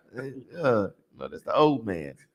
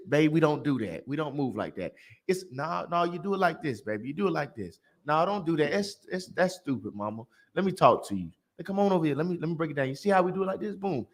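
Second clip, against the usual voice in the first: gentle coaxing; 2 semitones lower, 5 dB quieter than usual. Retold or imitated. Voicing patient early partner.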